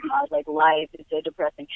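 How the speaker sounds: mock bummer person. Upbeat woman imitating a bummer person, mock gloomy. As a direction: put on a downer's low moan. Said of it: "a bummer person".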